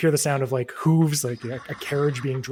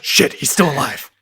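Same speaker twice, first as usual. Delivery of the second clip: callous driver; 4 semitones higher, 7 dB louder than usual. Acted. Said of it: "guy says".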